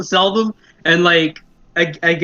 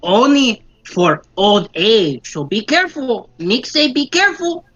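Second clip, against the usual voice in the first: goblin voice; 4 semitones higher, slower than usual. Acted. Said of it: "be like".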